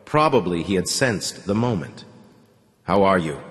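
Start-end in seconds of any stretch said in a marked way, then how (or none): 2.8-3.4 weary, good-natured. Acted. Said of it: "in a weary, good-natured voice".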